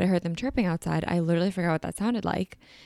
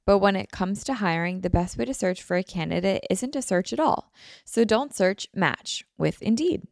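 ad read. Acted. Host reads sponsor ad.

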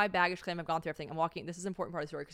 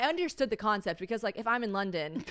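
usual speaking voice

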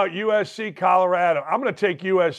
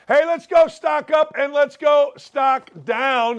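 hype segment call; 7 semitones higher, 4 dB louder, slower than usual. Acted. Segment intro announcer call.

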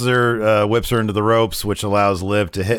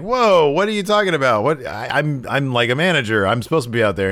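mock indignant disbelief; 4 semitones higher than usual. Voicing Lana's indignation.

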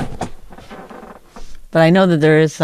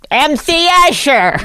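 imitating an excited friend; 6 semitones higher, slower than usual. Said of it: "Then you're like".

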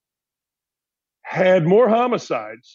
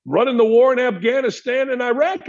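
ordinary talk

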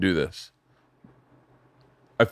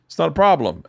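falsely easygoing; 6 semitones higher than usual. Retold or imitated. Acts out falsely forgiving reply.

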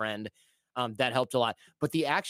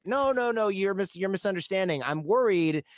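defensive protest; 6 semitones higher than usual. Retold or imitated. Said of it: "And I'm like".

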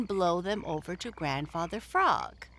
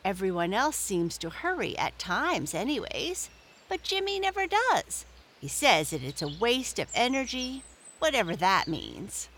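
put-on high, chatty young rabbit; bunny puzzling aloud; 4 semitones higher than usual. Peter explaining.

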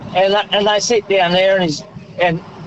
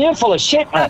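laughing mock accusation; 7 semitones higher than usual. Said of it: "She's going".

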